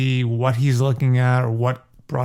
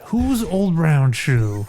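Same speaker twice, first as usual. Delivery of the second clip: laughing; 3 semitones higher, much slower than usual. Real, not acted. Laughing at own joke.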